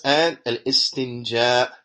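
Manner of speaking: al istinja drawn out slowly; careful pronunciation. Shown as a demonstration. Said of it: "this is how it should be pronounced".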